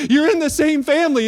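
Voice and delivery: in lifted high and loud over family; stress on in. Acted. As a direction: hit in, then fall away on family. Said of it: "preacher stresses point".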